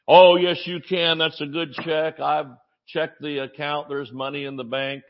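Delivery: a father's mock huff at the hospital clerk; huffy. Father huffs at the clerk over his check, mildly indignant. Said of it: "he got a little huffy".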